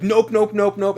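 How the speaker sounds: loud, high, mock refusal of the friend; hammed-up stubborn nopes. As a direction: yell nope nope like a stubborn player. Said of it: "And he's like".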